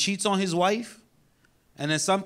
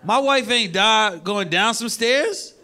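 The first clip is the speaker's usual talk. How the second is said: courtroom plea; 3 semitones higher, 4 dB louder, slower than usual. Retold or imitated. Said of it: "I'ma be in court like".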